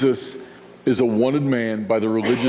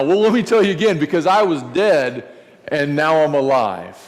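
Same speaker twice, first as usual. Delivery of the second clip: eager insistence. Retold or imitated. Lazarus insists on retelling.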